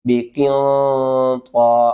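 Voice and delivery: بقیوں طا with a thick, heavy ط, slowly. Shown as a demonstration. Teacher demonstrates the heavy طا for students. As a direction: make the طا in بقیوں طا full and heavy. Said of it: "طا کو آپ نے موٹا کر کے پڑھنا ہے".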